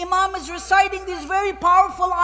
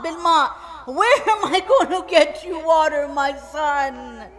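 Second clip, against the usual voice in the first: loud, then sinking, helpless lament; grieving father's reply; 4 dB louder than usual. Acted. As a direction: answer like a father with no water to give. Father answers his dying son.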